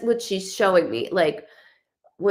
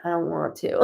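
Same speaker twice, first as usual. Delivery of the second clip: lower, softer grumbling no; reluctant refusal; 4 semitones lower, 5 dB quieter, faster than usual. Retold or imitated. Imitating the boyfriend who won't go, reluctant. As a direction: drag your feet on it. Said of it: "then it comes to him".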